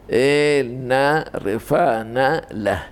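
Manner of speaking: slow, drawn-out verse reading; verse recitation. Shown as a demonstration. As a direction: give each word of the verse room, slowly. Reads out a Torah verse. (קריאת פסוק איטית ומתמשכת)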